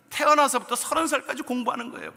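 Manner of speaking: 태어나서부터 punched high and loud; emphatic stress. Real, not acted. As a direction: hit 태어나서부터 hard and high. Emphatic sermon point. (태어나서부터를 힘주어 강조)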